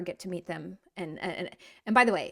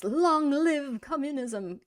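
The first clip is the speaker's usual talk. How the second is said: slow, higher-pitched proclamation; playful revolutionary declamation, drawn out; mock-grand slogan; 4 semitones higher, much slower than usual. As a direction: stretch it out like a rallying cry.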